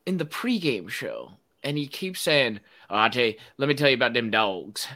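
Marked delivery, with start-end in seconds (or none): 2.9-4.9 fast, mock put-on folksy accent, imitating; Pat McAfee put-on accent. Mocking Pat McAfee's fake pregame accent, fast put-on accent. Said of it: "why are you doing this accent?".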